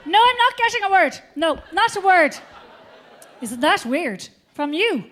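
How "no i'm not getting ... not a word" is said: put-on old mother voice. Mother voiced, can't hear.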